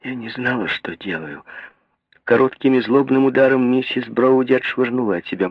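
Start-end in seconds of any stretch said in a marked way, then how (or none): 0.0-1.4 sobbing. A narrator's reading. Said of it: "всхлипнула она".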